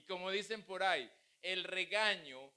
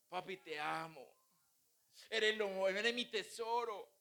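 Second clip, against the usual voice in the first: tender. Shown as a demonstration. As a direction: say "te amo" gently, like a child to her dad. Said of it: "decimos tierno".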